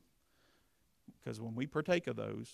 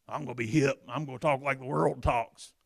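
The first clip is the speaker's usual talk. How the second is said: mocking cool talker; 4 dB louder than usual. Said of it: "can I tell you what you sound like".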